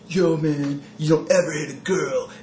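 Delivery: lightly voiced mocking Canadian accent, eh. Mocking the Canadian kids who scolded him, mock Canadian accent. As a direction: sneer it like a Canadian punk kid.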